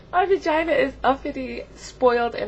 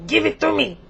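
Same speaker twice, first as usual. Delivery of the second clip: louder demanding order; Frenchie; 4 semitones higher, 5 dB louder than usual. Acted. Frenchie going wild near a man, demanding. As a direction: play a lightly voiced greedy, demanding figure. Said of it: "very demanding".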